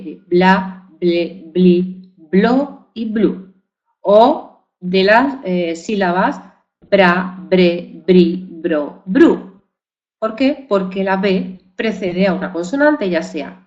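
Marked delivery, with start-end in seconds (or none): 0.0-9.6 each syllable bla, ble, bli, blo, blu, bra, bre, bri, bro, bru said apart and slowly; syllables spelled out. Shown as a demonstration. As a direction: sound out every syllable with B on its own. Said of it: "la sílaba ble". (sílabas pronunciadas una a una, despacio)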